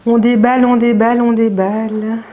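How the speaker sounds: put-on "on déballe" en petit accent anglais, plus haut et plus fort; light English accent. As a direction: joue la Française qui singe l'anglais pour rire. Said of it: "Je vais prendre un petit accent anglais". (léger accent anglais amusé)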